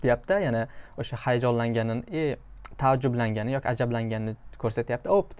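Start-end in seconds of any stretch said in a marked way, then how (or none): 5.1-5.4 high-pitched little exclamation of surprise; mock surprised cry. Shown as a demonstration. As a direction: pop the word up like a startled gasp.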